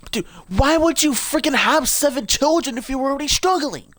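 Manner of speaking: high-pitched incredulous rant; high squealed complaint; exasperated outburst. Real, not acted. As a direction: break off and wail in disbelief. Breaks off reading to rant.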